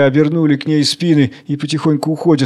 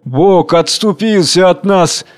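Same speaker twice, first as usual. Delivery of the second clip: anguished cries; 5 semitones higher, much slower than usual. Acted. Crowd cries of doom.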